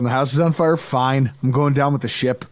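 lightly voiced passed-out drunk, unbothered; mock drunk resignation. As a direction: play a drunk who's given up, low. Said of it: "I'm already drunk and passed out".

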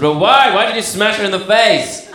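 a mum demanding why; mock cross mother; exasperated mum. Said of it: "My mum said".

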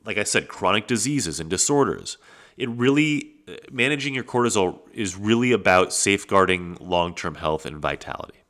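stuffy-nose nasal voice; talking through a blocked nose. Real, not acted. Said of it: "I'm sure I sound a little nasally".

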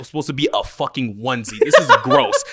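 disgusted, laughing loudly; laughing outrage. Real, not acted. Outraged at the jersey.

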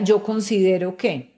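level, matter-of-fact "yo considero que"; firm assertion. Shown as a demonstration. Speaker contrasts a man's firm phrasing, assured. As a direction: state it like a confident businessman. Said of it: "Y un hombre diría".

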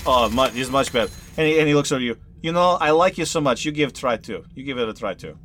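a hint of an eager Russian trainer; NPC voice. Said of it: "Cleo's like".

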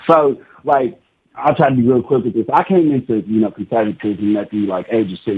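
hand over mouth. Real, not acted. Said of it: "your hand over your mouth".

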